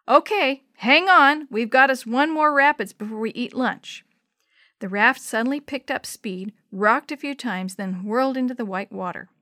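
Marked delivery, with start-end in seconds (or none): 0.1-4.0 loud warning call to hold on. Acted. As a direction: shout it over rushing water. Calling out over the rapids.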